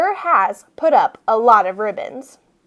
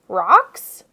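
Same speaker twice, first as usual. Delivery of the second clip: mocking guess; 4 semitones lower than usual. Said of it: "I asked".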